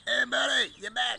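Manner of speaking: squeaky high hello to a bird; high greeting. Real, not acted. Greeting the returning pigeon, high and excited. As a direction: call out to the pigeon like a delighted friend.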